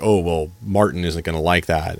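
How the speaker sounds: low, ominous understatement; retold grave tone. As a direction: imitate a gravely disapproving phone contact. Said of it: "grave tone".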